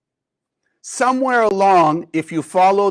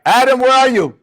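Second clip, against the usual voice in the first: higher, louder call across the garden; God calling out; 5 semitones higher, 5 dB louder than usual. Acted. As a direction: call for Adam, loud and searching. God calling hiding Adam.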